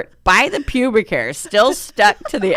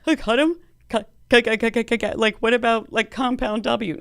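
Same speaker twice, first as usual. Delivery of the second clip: retold alarm; 2 semitones higher than usual. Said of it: "And I was like".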